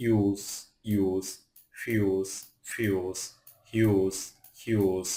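ইউজ, কিউট with a "yoo" glide; each word from ইউজ to ইউজফুল alone, "yoo" sound, falling. Shown as a demonstration. Teacher drilling U words for learners, "yoo" in কিউট. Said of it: "ইউ হয় এরকম শব্দ".

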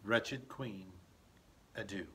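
fading soft last words; dying fade. Acted. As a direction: let the voice die away. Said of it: "I'm dead".

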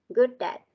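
"Good at" as one joined word, "goo-dat"; linked sounds. Shown as a demonstration. Teacher correcting a pupil's reading, linked "Good at". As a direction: run "Good" into "at" without a break. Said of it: "thì mình sẽ nối âm".

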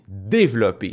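"développer" stressed on the first syllable; French stress on développer. Shown as a demonstration. Creator comparing with French, first-syllable stress on "développer". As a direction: lean on the DÉ of "développer". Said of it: "la première syllabe".

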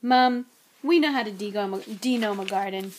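groaning protest to mother; groaned. Acted. Son objecting to being shown the gardening book, groaning. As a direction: complain with a weary groan. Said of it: "George groaned".

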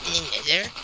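light mock nerd voice, rising question; nerdy voice. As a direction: ask it like a nerd. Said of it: "As I say in my nerdy voice".

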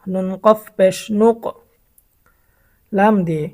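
teacher's measured demo of বাব, বিব, বুব; sukun spelling demo. Shown as a demonstration. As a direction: spell it, then land on the joined sound. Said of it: "ফায়ের উচ্চারণটা আমরা জানব".

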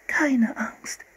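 calm the frightened cubs in a whisper; whispered comfort, barely breathed; soothing whisper. A narrator's reading. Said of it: "flüsterte beruhigend".

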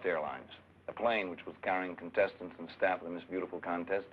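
formal news-report reading; press release. Acted. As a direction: deliver it like an official statement.

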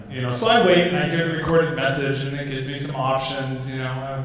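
usual speaking voice

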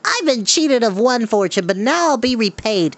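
high greedy claiming; greedy former giant crying out. Acted. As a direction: grab the treasure with words. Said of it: "he cried".

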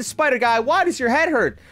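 teasing taunt. Real, not acted. Taunting another player.

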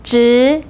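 职 in Mandarin second tone, pitch rising. Shown as a demonstration. Teacher shows learners the tone, 职 said with a rising second tone. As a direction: let 职 climb like a question. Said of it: "second tone".

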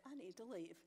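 soft, level calm. Retold or imitated. Telling the workmen again, calmly and softly. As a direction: say it gently, holding anger back. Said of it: "very calmly".

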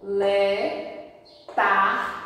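"Le, tar" as separate, held syllables; isolated syllables "Le, tar" for learners; syllable reading. Shown as a demonstration. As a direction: read "Le, tar" apart, pulling out the final R. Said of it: "então você puxa tar".

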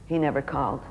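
put-on a touch of old heartbreak, said low; quiet sadness. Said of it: "and her face dropped".

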